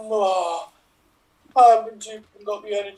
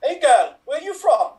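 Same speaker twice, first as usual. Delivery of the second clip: lilting Welsh accent, hammed up; mock Welsh local; 5 semitones higher, 4 dB louder than usual. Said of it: "with a Welsh accent".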